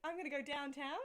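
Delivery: Aussie accent with an upturned ending. Shown as a demonstration. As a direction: play up the Aussie, lifting it like a question. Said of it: "That's not Aussie".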